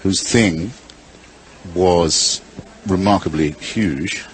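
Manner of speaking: measured verse with teasing pauses; limerick recitation. Acted. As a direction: hold back each phrase before the punchline.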